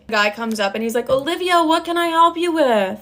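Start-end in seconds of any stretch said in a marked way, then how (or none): 1.1-3.0 high-pitched mocking boss greeting; high singsong mock politeness; put-on boss voice. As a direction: imitate an overly obliging boss, pitched way up.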